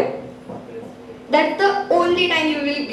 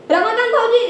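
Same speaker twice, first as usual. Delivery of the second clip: higher-pitched woman's call; 5 semitones higher than usual. Acted. Woman calling her brother-in-law, brisk high call. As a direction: summon him briskly, first attempt.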